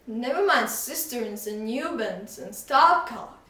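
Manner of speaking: exclaimed. Acted. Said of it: "he exclaimed".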